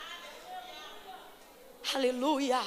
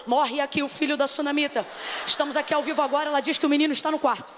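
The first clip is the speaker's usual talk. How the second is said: fast breathless live-stream report; mock live reporter; faster than usual. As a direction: rattle it off like an internet live broadcast. (imitando repórter de live, bem rápido)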